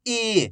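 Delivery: "ई" as a long, held ee; drawn-out long vowel. Shown as a demonstration. Teacher showing how the big ee is read, "ई" drawn out. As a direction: stretch out "ई". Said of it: "बड़ी ई की मात्रा को खींच के पढ़ते हैं".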